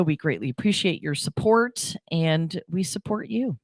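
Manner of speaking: announcer promo voice; radio ad read. Acted. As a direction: sell it like a local radio spot. Reads station promo and sponsor ad.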